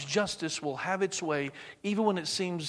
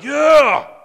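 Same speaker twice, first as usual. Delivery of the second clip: high, loud cheering yell; excited cheer; 11 semitones higher, 20 dB louder than usual. Retold or imitated. The crowd cheering as judgment falls, loud cheer.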